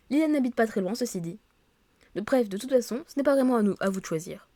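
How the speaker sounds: lively read-aloud of story dialogue; reading game dialogue aloud. Acted. Office colleagues agreeing on the park for welcome drinks, animated read-aloud. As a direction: read the characters' lines clearly, a little animated.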